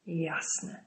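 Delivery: Brody scoffs at the prisoner's claim; scoffing snort. A narrator's reading. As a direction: dismiss it with contempt. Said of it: "prychnął Brody".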